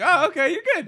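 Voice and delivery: high-pitched, laughing through it; high laughing cop voice. Retold or imitated. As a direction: play the cop, giggling.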